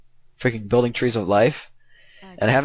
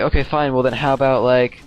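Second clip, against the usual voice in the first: building excited realisation; 3 semitones higher than usual. Retold or imitated. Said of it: "I'm like".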